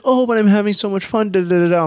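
high, whiny-girl imitation tumbling into da-da-da; mock protesting girl. Storyteller imitating a girl who wants to stay, mock protest.

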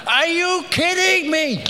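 can't believe what he just heard; incredulous. Real, not acted. Preacher reacting to being told to stand still, incredulous outburst.

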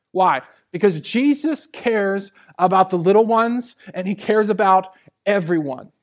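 loud, emphatic sermon delivery; forceful preaching. Real, not acted. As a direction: drive the point home to the congregation.

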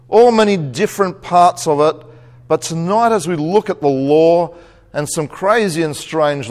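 earnest church prayer; opening prayer. Acted. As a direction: pray sincerely over the congregation.

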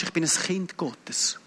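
slow, whispered affirmation; breath-only, drawn-out statement of faith; hushed declaration. Retold or imitated. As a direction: drop to a slow, reverent whisper.

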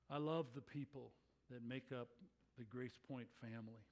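earnest spoken prayer, heads bowed; pastor's prayer. Acted. Pastor praying for his church family, earnest and humble. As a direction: pray over the congregation, sincere and steady.

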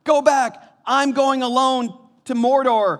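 high, loud hammed-up hobbit cry; mock-heroic farewell at high pitch; Frodo. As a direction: shout your friend away in a high melodramatic voice. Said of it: "He goes".

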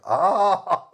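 high drawn-out aah of realization; knowing "ah" exclamation. Retold or imitated. Ukrainian friends grasping the mistake, drawn-out aah. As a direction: let out a long, high "aah". Friends react on hearing the insult.

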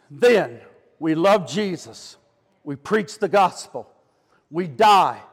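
dropped low, slow and spaced out; grave, deliberate final charge; solemn motto. Real, not acted. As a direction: sink the pitch and weight each phrase. Solemn final motto after climax.

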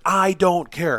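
high, curt brush-off; mock dismissive professor. Professor brushing off the student's nosebleed, high and curt.

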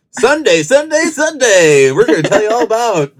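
booming high announcer hype; monster truck ad. Retold or imitated. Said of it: "you sound like the monster truck, uh, advertising".

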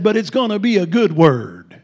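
loud Texas drawl; Dale Gentry. Retold or imitated. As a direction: boom it out like a drawling Texan prophet. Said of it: "He got a Texas drawl".

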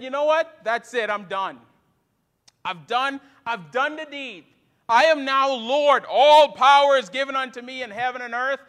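imagined proclaiming Christ. Retold or imitated. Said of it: "and said".

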